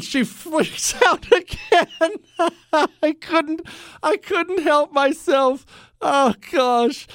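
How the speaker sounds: high, squeaky voice through real laughter; helplessly laughing while trying to finish the story; stretched-out words breaking into giggles; cracking up. Real, not acted. Cracks up at his own story.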